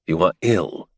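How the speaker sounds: curt and accusing; sharp. Acted. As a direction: snap it as an accusation. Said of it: "he said sharply".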